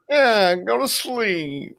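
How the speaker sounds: very slow, high drawn-out comedian voice; W C Fields. Acted. Host echoing the tape's comedian, slow high impression. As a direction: stretch it out as a comic bedtime impression. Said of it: "It was, uh, W C Fields".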